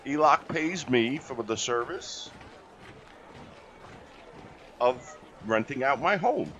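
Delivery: a lightly voiced goblin getting down to business; blunt goblin. Goblin lays down his terms.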